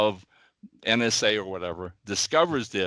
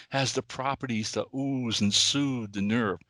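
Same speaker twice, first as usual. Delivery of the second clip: lightly imitated German accent; a hint of a sarcastic German dentist. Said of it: "in his little German accent".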